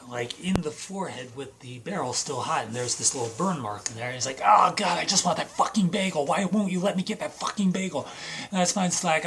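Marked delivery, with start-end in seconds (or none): 4.4-8.1 mock-exasperated plea, higher pitched; lightly acted frustrated outburst, loud at the start; exasperated whining. Acted frustrated character craving a bagel.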